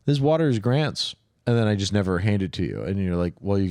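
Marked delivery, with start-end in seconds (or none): 0.0-1.1 mock promise. Mock example quote, slow.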